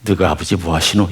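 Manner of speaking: put-on light Gyeongsang accent with a rise; a hint of Gyeongsang dialect. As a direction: pose the Busan question to the congregation. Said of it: "이 주제가 뭔지 아세요?".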